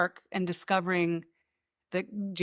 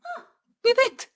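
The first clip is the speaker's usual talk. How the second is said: sarcastic; 4 dB louder than usual. Retold or imitated. Sarcastic reply to grandma.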